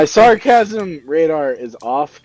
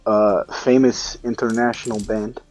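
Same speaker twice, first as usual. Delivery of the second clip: put-on South African accent. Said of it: "Fucking South African".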